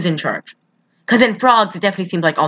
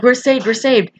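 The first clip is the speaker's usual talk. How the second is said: mock relieved cry; 6 semitones higher than usual. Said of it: "I'm like".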